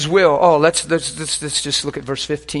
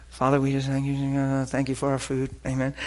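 softer, formal table-grace cadence; religious prayer; 5 dB quieter than usual. Retold or imitated. Pastor mocking a stiff formal grace, softer and recited. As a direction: recite it like a rote mealtime prayer. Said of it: "We didn't do the".

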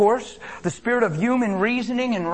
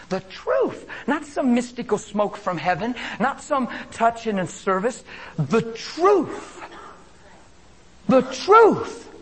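building emphasis; 5 semitones higher, slower than usual. Acted. Preacher building on "the truth.

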